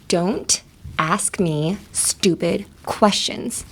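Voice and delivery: Don't. Ask. Me. Stupid. Questions. slow, a stop after every word; angry, word by word. Shown as a demonstration. Teacher shows how an angry person spaces every word. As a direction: clip each word like you're fed up. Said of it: "putting a period after every single word".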